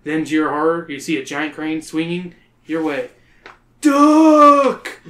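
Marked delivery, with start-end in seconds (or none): 3.8-5.0 very high, loud warning yell; scream. Acted. You screaming at friends about the crane. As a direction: bark the warning at your friends. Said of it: "you scream".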